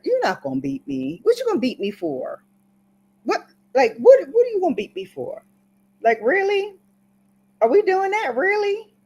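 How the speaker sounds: put-on high-pitched disbelieving child; squeaky, indignant questioning; mock incredulous protest. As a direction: argue back like a smart-mouthed kid, voice climbing high. Child arguing back against a beating.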